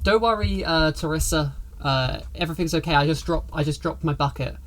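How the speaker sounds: a touch of nervousness; mildly rattled, hurried reassurance; slightly shaky voice. Acted. Cleaner covering up to Teresa, slightly shaky. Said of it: "in a slightly shaky voice".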